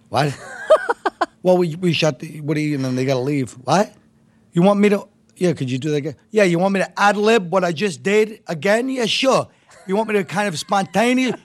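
high mock outraged squawk; imitating Pat's outburst. The speaker retells Pat Cooper exploding at a reshoot, mock screaming. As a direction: ham up an old comic blowing his top. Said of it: "He starts screaming".

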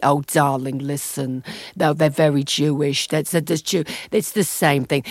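put-on a touch of New York Jewish accent, darling; American Jewish accent. Imitating American Jews on English Jews, mild American Jewish accent. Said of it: "I'm doing an American accent here".

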